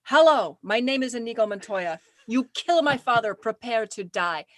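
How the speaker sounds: lightly imitating the famous duel line; quoting Inigo Montoya. Retelling the concert, a light Inigo Montoya imitation. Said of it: "he says".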